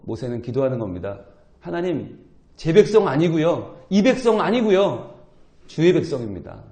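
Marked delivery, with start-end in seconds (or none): 1.6-6.6 earnest plea. Acted. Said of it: "간절히 기도하는 거죠".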